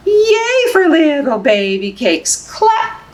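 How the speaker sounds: high bright cheer; excited cheer. Acted. Librarian cheering within the baby book, high bright.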